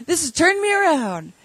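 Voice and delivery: loud, high proclaiming shout; imitating a drunk man's ecstatic outburst; drunken hallelujah. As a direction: belt it out like a drunk who just found religion. Drunk man testifying at meeting.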